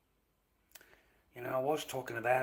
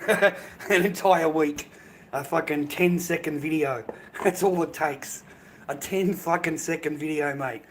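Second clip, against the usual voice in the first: indignant outburst; 4 semitones higher, 7 dB louder than usual. Real, not acted. Outraged rant about TikTok ban.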